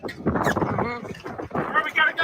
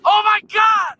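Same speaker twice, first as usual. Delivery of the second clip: shocked; 10 semitones higher, 4 dB louder, slower than usual. Real, not acted. Hail storm hits.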